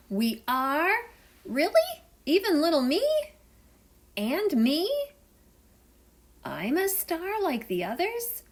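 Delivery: little sea animals thrilled to be called stars; delighted. Acted. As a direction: squeal with joy at being included. Shy animals thrilled by praise.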